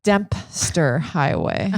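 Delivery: put-on slow, drawn-out Boston accent. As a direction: stretch out Dempster Highway in a Boston accent. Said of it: "That's my Boston accent".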